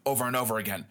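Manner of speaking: a sly whispered aside; playful whisper about his own swearing. Real, not acted. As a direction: whisper it like a confession.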